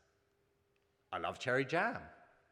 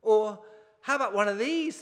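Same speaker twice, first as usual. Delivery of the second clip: louder, higher teasing dad; playful father; 8 semitones higher, 8 dB louder than usual. Acted. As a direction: dangle the offer like a treat. Father tempting his son.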